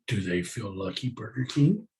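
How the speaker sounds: Clint Eastwood. Pretend. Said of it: "my Clint Eastwood face".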